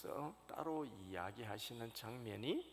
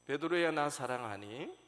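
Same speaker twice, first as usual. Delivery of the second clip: louder, insistent call of the name; pressing question; 5 semitones higher, 11 dB louder than usual. Retold or imitated. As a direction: press him hard for an answer. Jesus asks the third time.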